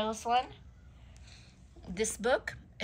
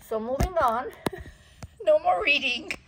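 loud, higher laughing exclaim; 9 semitones higher, 8 dB louder than usual. Real, not acted. Giving up on reading the book aloud, laughing loudly. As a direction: laugh it off and move on.

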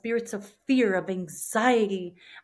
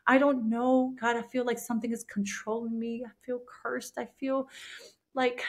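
tearful prayer; 3 semitones higher than usual. Retold or imitated. Alone in the cold jail cell, weeping and pleading with God.

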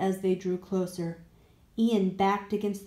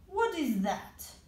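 stove monster; 7 semitones higher than usual. Acted. Stove monster asks, slow.

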